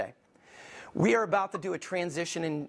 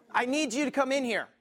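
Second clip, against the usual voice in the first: raised-pitch summons; parent calling out; 6 semitones higher than usual. Acted. Parent summoning kids over and over, calling out. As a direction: call the kids in.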